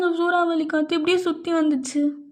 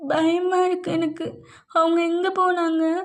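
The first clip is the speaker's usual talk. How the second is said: scared; 3 semitones higher than usual. Acted. Frightened girl still crying.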